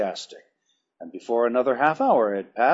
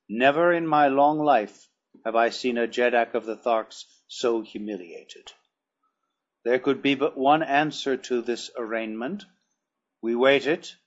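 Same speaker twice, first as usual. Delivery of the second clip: cold hard voice. Acted. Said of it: "in a cold, hard voice".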